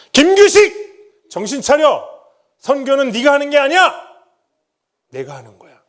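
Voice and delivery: God thundering a rebuke; stern divine rebuke. Acted. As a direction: call his name down from heaven like a stern father. God's voice rebuking him.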